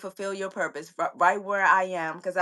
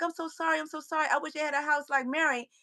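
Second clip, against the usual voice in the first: softer, higher pleading apology; soft apologetic mother; 5 semitones higher, 6 dB quieter than usual. Retold or imitated. Mother apologizing softly to her upset son. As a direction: say sorry gently and softly, a little higher. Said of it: "she was like".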